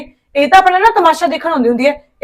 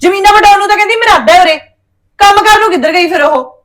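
angry sarcastic rant; 4 semitones higher, 3 dB louder than usual. Acted. Wife rails about sister-in-law.

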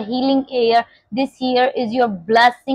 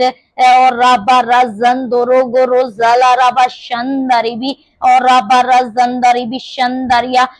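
speaking in tongues. Real, not acted. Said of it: "when you pray in the spirit of tongues".

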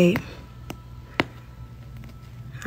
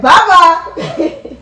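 tape saying bye-bye; 9 semitones higher, 7 dB louder than usual. Retold or imitated. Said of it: "the tape said".

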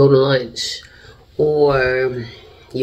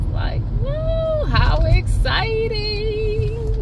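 high, excited mock cheer; 7 dB louder, much slower than usual. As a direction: squeal with fake excitement. Mother plays up the excitement.

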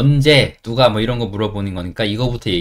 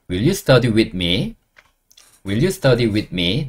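very slow rising question; slow model question; much slower than usual. Shown as a demonstration. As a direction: ask it slowly for learners. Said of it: "나와 함께는 with me". (천천히 묻는 말투)

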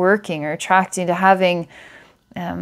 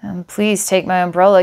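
a gentle, kind offer of help, lightly voiced; very kindly. Stranger offering his umbrella to a crying girl, kindly. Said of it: "says very kindly".

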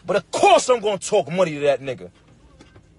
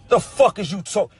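incredulous outburst. Real, not acted. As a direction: voice jumps up in disbelief. Incredulous rant at critics.

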